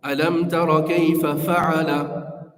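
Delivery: slow "Alam tara kayfa fa'ala", "fa'ala" set apart; careful "Alam tara kayfa fa'ala" with words separated; phrased by meaning. Shown as a demonstration. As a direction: pause before "fa'ala", unhurried. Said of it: "fa'ala is a separate word".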